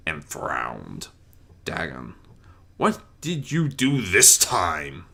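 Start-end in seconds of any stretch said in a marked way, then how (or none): 1.7-5.0 angry growl. Acted. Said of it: "he growled out angrily".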